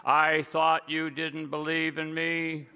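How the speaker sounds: slow, measured voice of God, lightly acted; voice from heaven. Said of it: "a voice came from heaven".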